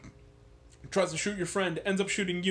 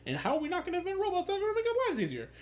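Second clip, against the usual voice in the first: incredulous question; 13 semitones higher, faster than usual. Retold or imitated. Incredulous retort to Star Child.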